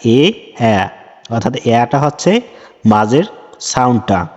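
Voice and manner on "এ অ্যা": এ named, then অ্যা voiced as the open a of bag; letter name, then its sound. Shown as a demonstration. Teacher showing students the letter and its sound. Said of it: "student বলবে অ্যা".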